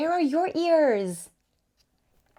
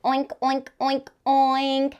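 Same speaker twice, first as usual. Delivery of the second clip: pig oink. Pretend. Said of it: "The pig says".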